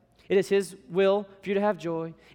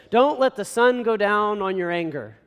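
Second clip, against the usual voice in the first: louder, heavy scripture reading; condemning reading; 2 semitones higher, 4 dB louder than usual. Shown as a demonstration. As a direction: read it out as a condemning rule. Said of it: "we read it like this".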